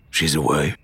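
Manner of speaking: low, dull stunned echo of She's away; captain hearing his wife has left, dully. A narrator's reading. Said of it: "he repeated dully".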